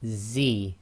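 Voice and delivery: "Z" said as a buzzing Arabic z; a clear voiced z sound; Arabic zay. Shown as a demonstration. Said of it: "So this is with a Z".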